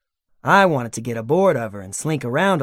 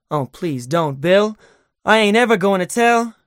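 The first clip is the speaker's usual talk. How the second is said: rising, louder, higher frightened begging; shriveling plea; 6 semitones higher, 5 dB louder than usual. A narrator's reading. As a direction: cower and beg, climbing in pitch. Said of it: "would shrivel up and say".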